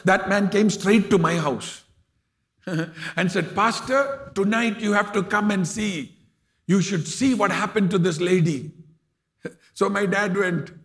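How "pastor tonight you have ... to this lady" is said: eager urging. Retold or imitated. Church member telling the pastor to come tonight, eager and excited. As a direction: urge him to come see the wonder.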